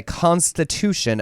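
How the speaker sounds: lightly drawn-out stress on Constitution; emphasis on Constitution. Retold or imitated. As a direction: lean knowingly on the word Constitution. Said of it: "special emphasis on the word constitution".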